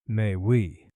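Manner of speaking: put-on a faint French accent, bowing politely; light French accent. Perfumer greeting Holmes, faint French accent. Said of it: "faintest trace of a French accent".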